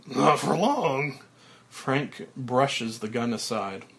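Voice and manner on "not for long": smiling threat. Acted.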